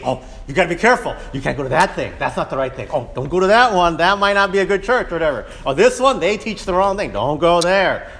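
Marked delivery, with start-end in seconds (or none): 0.0-5.1 quick, fretful cautioning; stressed warning. Retold or imitated. Church member fretting to a new believer, anxious and fast. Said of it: "you start stressing out and thinking". 5.6-8.1 quick, fretful cautioning; stressed warning. Retold or imitated. Church member fretting to a new believer, anxious and fast. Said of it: "you start stressing out and thinking".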